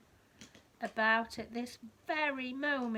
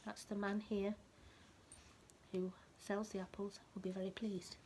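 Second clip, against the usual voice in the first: soft unvoiced whisper to the child; whispered aside; 8 dB quieter than usual. Reading to a child, a whispered aside. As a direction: lean in and whisper it like a secret.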